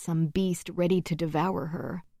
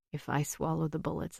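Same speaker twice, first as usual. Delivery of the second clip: weak voice; 6 dB quieter than usual. A narrator's reading. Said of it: "in a weak voice, unsure".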